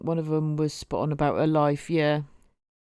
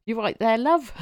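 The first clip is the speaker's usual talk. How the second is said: put-on a half-hearted Yorkshire accent; a faint stab at Yorkshire, barely there; 4 semitones higher than usual. Mimicking a Yorkshire crow greeting, weak Yorkshire accent. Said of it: "I can't do that sort of accent".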